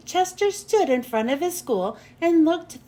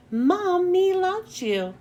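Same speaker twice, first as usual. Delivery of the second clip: tender; 4 semitones higher, slower than usual. Acted. Second tender repetition, higher.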